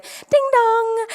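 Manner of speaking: high, sing-song ding dong; imitated door chime. She flings the gas station door open to a mock high chime. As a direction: mimic the shop door's bell.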